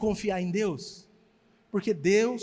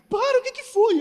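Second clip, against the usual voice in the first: high, loud startled wife; wife's startled question; 14 semitones higher, 8 dB louder than usual. Retold or imitated. Wife startled by his laughing, high loud alarm. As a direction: squeal out what's wrong, alarmed.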